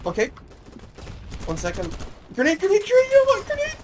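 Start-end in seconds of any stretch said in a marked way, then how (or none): 2.3-3.8 grenade warning yell. Real, not acted. Offering grenades mid fight.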